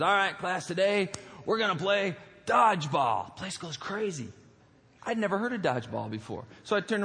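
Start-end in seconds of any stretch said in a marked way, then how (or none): 0.0-3.3 gym coach. Retold or imitated. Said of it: "the coach is out there and says".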